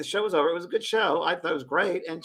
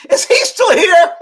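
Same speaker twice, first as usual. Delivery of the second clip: high, loud, slow mock disdain; mock Oprah; 16 dB louder, slower than usual. Imitating Oprah interrupting the shoot, high mock disdain. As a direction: sneer it as the rude star. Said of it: "and she goes".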